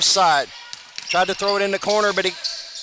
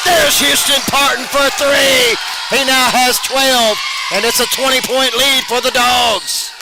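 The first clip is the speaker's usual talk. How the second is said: louder and higher, pumped-up shout; excited call; 5 semitones higher, 3 dB louder than usual. Real, not acted. Announcer calls Parton's three with a pumped-up shout. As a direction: sell the big three to the crowd.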